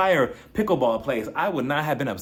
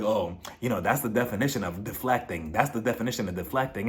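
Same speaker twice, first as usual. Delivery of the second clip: lower, softer know-it-all voice; imitating Robin lecturing, lower and softer; mocking Robin; 5 semitones lower, 4 dB quieter than usual. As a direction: mimic her smug lecturing.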